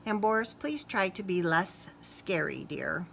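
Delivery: soft teacher's plea; gentle request. Acted. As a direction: ask it tenderly. Teacher gently asks Boris.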